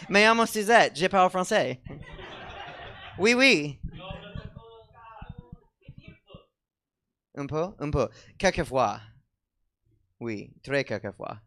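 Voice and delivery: put-on high, hammy French accent; fake French accent. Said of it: "I'm gonna mix my languages".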